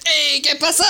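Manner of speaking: mock casual greeting. Joking reply to gunman.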